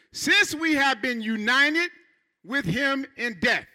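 slow, measured verse reading; slow pulpit reading of scripture. Acted. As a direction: read the verse slowly, weighing it.

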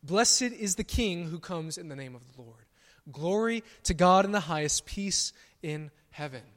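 loud, ringing proclamation; exclaiming loudly. Retold or imitated. Preacher voicing the crowd hailing Jesus, loud. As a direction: cry it out like the crowd greeting a king. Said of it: "exclaimed loudly, publicly".

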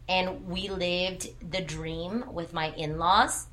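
slow, dry, tongue-in-cheek; wry joke. Real, not acted. Mom joking about moving in with in-laws, slow and wry. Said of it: "and I joke around and I say that".

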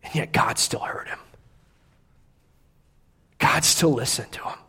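hushed, voiceless whisper. Real, not acted. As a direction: drop to a whisper to land it. Whispered point in sermon.

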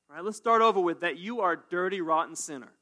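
loud, blunt shock line; shock them. Shown as a demonstration. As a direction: hit them with it hard and loud. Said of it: "Just go ahead and shock 'em".

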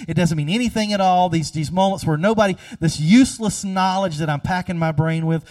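pleading questions building toward a cry; rising anguish. Retold or imitated. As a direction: push each question harder as it climbs. Chaplain questioning God, building.

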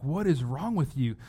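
half-hearted shocked scolding; lightly voiced outraged sailors; mild mock outrage. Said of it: "They're, like, morally outraged".

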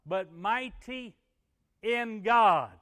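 loud, high, drawn-out preaching; triumphant proclamation. Real, not acted. Preacher reaching the verse's answer, triumphant shout. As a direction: build to a big shout on "in God".

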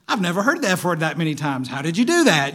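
mock admiring question. Ironic reply he never gave.

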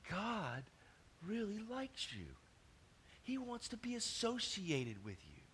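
high, soft and earnest; tender reassurance. Real, not acted. Preacher tells listeners God likes them, tender reassurance. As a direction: lift the voice softly to reassure.

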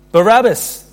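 high, loud cry from the crowd; crowd's answer. A narrator's reading. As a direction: call it out high and forceful as the mob. Crowd answers the governor's question.

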